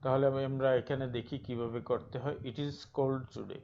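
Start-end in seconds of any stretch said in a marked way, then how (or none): 2.4-3.6 very slow, careful read of "It is cold today"; slow example reading. Shown as a demonstration. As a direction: spell it out word by word for the class. Teacher reads example sentence.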